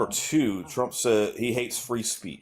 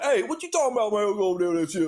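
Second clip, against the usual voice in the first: put-on southern Black accent; 11 semitones higher, 4 dB louder, faster than usual. Caller imitating how Black people talk back home in a southern Black accent. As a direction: show off the southern Black way of talking. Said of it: "I talk like this here".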